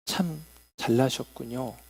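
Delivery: low, measured compliment; sincere praise. Shown as a demonstration. Preacher shows the congregation words meant as praise, sincerely complimentary. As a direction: say it as a genuine, polite compliment. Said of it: "라고 하면 좋은 칭찬일 수 있겠지만".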